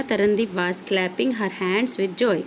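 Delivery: reads the filled sentence slowly, with the answer clapping in place; slow classroom reading of the completed sentence; slow read-aloud. Shown as a demonstration. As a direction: read it out word by word, gap now filled. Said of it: "तो क्या आएगा?".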